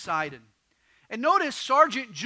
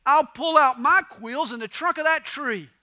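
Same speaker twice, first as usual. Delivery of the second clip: loud, higher-pitched storybook glee; gleeful; 5 semitones higher, 7 dB louder than usual. Acted. Porcupine Willie decides to shed his quills, gleeful. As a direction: announce the plan with delighted gusto. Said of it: "he decided with glee".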